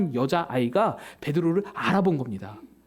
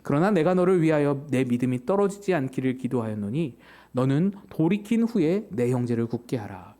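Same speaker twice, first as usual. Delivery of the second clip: lower, measured scripture quote; Jesus' words read low; 6 semitones lower than usual. Acted. Preacher voices Jesus praying for Peter, low and measured. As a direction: let the verse sink, low and steady.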